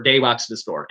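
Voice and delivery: "they" said with a D, as "dey walks"; Newfoundland "dey" for "they"; Newfie no-TH. Shown as a demonstration. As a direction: harden the TH of "they" into a D. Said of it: "there's no T H in Newfie".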